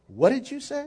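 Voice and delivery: lightly mimicked tough-guy challenge; playful take on a famous movie line. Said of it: "that's a different guy".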